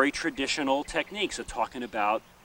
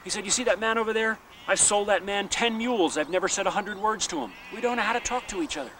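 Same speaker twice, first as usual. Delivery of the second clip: higher, lightly played country man; a hint of a rueful old farmer; mildly imitated Northern Irish man; lightly voiced Irish farmer; 7 semitones higher than usual. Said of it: "he says".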